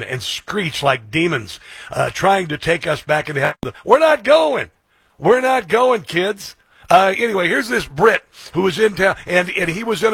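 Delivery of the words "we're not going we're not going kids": defiant shout. Real, not acted. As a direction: belt it out like a rally crowd-pleaser. Defiant rally-style declaration.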